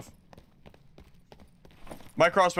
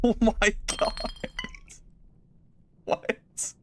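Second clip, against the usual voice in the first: shrieking jackpot winner; 10 semitones higher, slower than usual. Real, not acted. Laughing at loot haul.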